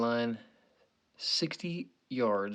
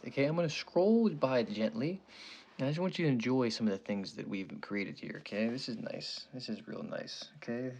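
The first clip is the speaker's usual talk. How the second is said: mock relaxation voice. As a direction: lull the viewers like a spa tape. Mock relaxation guide for viewers.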